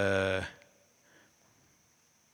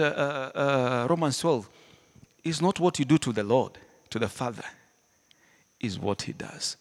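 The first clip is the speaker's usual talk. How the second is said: usual speaking voice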